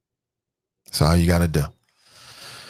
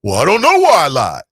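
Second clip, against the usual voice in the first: flustered parent; 4 dB louder, slower than usual. Retold or imitated. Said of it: "'Cause you like".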